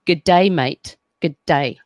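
Australian accent, words run lazily together; lazy Australian accent. Shown as a demonstration. Teaching a friend the Australian greeting, lazy Australian accent. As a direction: show how an Australian really says it. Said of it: "a little bit lazier when you talk".

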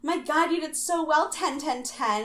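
high, fake-sweet gushing over scores. Friend congratulating a rival backstage, high and fake-sweet. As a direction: squeal it like a phony best friend.

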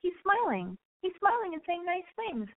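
mock-naive girl talking herself out of her doubts; self-deceiving girl. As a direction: brush off the warning like a smitten girl.

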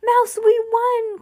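high-pitched cry of triumph; thrilled winner's squeal in words; excited cry. A narrator's reading. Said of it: "cried Judy".

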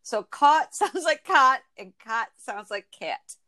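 slow, each vowel set apart; careful vowel demo. Shown as a demonstration. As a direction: spell out caught, cot, cat slowly. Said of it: "That's the only time I could do it right".

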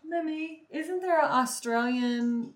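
lightly put-on British cartoon child; playful mock-British kiddie voice; Peppa Pig. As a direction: ask like a little cartoon piglet. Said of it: "I'm turning into Peppa".

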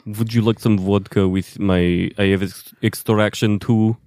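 put-on Russian accent. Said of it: "Give us your best Russian accent".

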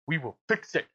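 light celebrity impression with an Austrian accent; Arnold Schwarzenegger. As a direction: lightly imitate an Austrian action star. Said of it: "in Arnold Schwarzenegger's voice".

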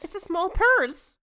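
high, bright spoiled heiress; London voice. Acted. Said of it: "You will be London".

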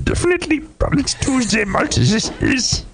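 put-on high, breathy Yoda squeeze with a German accent. By request for the hosts, a German-accented Yoda. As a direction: play Yoda as a German, laughing into it. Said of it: "I kinda wanna hear a German Yoda".

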